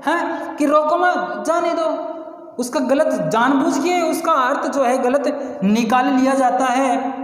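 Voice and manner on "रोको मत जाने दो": रोको मत higher as one phrase, then जाने दो; higher pitch, break between मत and जाने दो; misheard phrasing, pause after मत. Acted. Teacher voices the listener who misunderstands, higher, pausing after मत. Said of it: "अगले वाला उसको गलत समझ रहा है".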